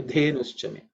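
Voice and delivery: "Dhenuschame" with a breath on the opening Dh; aspirated Dha. Shown as a demonstration. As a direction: start "Dhenuschame" on an aspirated D sound. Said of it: "it has to be aspirated".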